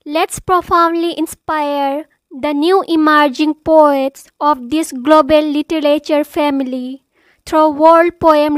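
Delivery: emphatic, measured opening declamation; formal declamation. Acted. Host urging new poets to write, formal declamation. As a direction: proclaim it to an audience, key words punched.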